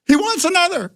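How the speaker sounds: a high called-out yell across the set; a light retold yell. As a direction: shout it to the whole crew, thrilled. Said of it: "And I yell".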